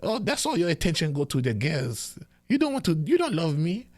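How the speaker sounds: high, whiny guilt-tripping mother; complaining mom. Retold or imitated. Son imitates his complaining mother, high and whiny. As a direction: pitch it up like a nagging mom. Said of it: "she say".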